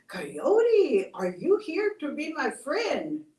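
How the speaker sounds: high, pleading voice of a lonely cactus; a lonely cactus pleading, a touch tearful; lonely crying cactus. Acted. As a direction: beg for a friend, close to tears. Cactus asks Coyote.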